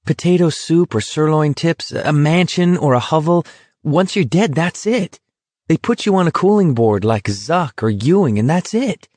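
acted exasperation, pitch swinging up; exasperated. A narrator's reading. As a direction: argue it out, thoroughly exasperated. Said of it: "more exasperated than ever".

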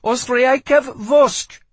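slow, high, loud foreign command; shouted order. A narrator's reading. Boy guard warns off intruder in his language, shouted order. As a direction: hammer out each word as a warning.

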